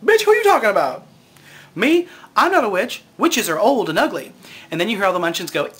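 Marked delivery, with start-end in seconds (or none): 0.0-4.3 fast, loud, high indignant snap; high quick outraged girl; sassy Dorothy. Retold or imitated. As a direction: fire it back, offended and quick. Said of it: "And Dorothy says".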